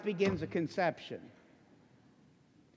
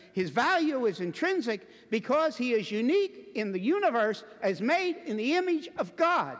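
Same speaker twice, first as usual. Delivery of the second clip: higher, emphatic sermon delivery; impassioned preaching; 5 semitones higher, 3 dB louder than usual. Real, not acted. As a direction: drive each point home to the congregation. Preaches at full force.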